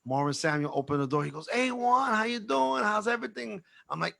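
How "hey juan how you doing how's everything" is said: much higher-pitched, chummy hello; high-pitched mock hearty greeting; acted friendly greeting. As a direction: imitate an eager acquaintance greeting someone. Marvin's cheery greeting acted out.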